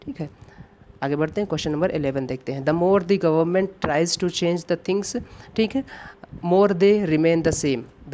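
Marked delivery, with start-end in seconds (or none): 2.6-8.1 reading the sentence out word by word, very slowly; slow dictation read. Shown as a demonstration. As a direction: spell out the question sentence for students. Reads exam sentence aloud slowly. (धीमी गति से वाक्य पढ़ना)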